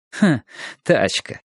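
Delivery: short scoffing "ha", then the word; a touch of laughter in a young woman's line; lightly amused, not fully laughing; amused chuckle. A narrator's reading. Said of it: "засмеялась девушка".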